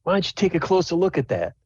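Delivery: a half orc bossing his buddy around; half orc order. Acted. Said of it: "He's like".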